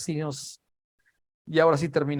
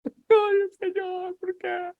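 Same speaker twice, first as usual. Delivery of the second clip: very high, whimpering lament; mock tearful wail; much slower than usual. Peter weeping after denying Jesus three times, acted tearful wail. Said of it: "después con lágrimas".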